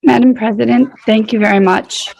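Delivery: hoarse, scratchy late-night voice. Real, not acted. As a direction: speak through a scratchy throat. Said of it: "my scratchy voice".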